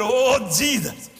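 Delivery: slow, drawn-out preacher's call of Jesus; preacher's groan. Acted. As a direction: stretch it out like a preacher moaning. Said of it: "I almost sounded like a black preacher".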